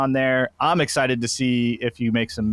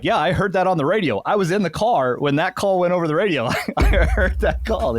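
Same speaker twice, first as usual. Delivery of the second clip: higher-pitched retold insistence; indignant protest; 7 semitones higher than usual. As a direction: insist you were there, voice climbing high. Retold heated protest on the phone.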